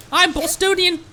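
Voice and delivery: a very high, slow, badly faked Bostonian accent in a squeaky Paimon voice. Streamer as Paimon tries a Boston accent, very high and slow, badly faked. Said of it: "That's not a Bostonian accent at all".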